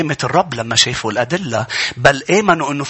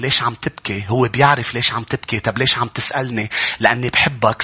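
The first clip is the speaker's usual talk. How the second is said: loving compassion; 3 semitones lower than usual. Acted. Jesus asks the weeping believer why, low and tender. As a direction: ask gently, out of love. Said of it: "تحنن وحب".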